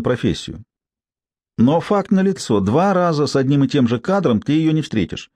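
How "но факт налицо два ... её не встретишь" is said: a hint of a brassy street woman; lightly voiced, higher, mocking gossip; coarse street woman. Tsypka continues.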